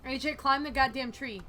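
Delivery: yelling. Real, not acted. Yelling at the character to climb.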